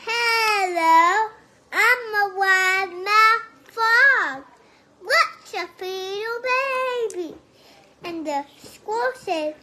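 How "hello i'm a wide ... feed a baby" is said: slow, drawn-out sing-song greeting; wide-mouth frog voice. Acted. Child telling grandpa the joke, slow sing-song frog voice. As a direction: stretch every word like a big-mouthed frog.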